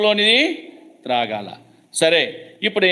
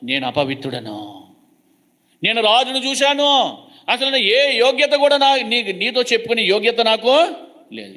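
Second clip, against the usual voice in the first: crying lament; 4 semitones higher than usual. Retold or imitated. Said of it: "ఏడుస్తూ మాట్లాడినాడు".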